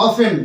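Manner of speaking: careful, falling "o-fen" for অফেন; correct pronunciation. Shown as a demonstration. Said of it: "আমার উচ্চারণটা কেমন আসবে".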